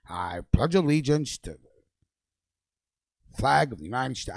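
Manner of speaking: slow, flat schoolroom drone fading to a mumble; rote pledge recital. Retold or imitated. Mocking the pledge he said as a kid, slow sing-song recital.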